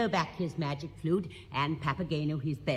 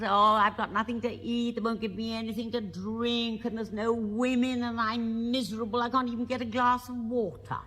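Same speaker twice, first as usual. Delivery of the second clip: whinging Papageno; 4 semitones higher than usual. Retold or imitated. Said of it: "He's whinging away".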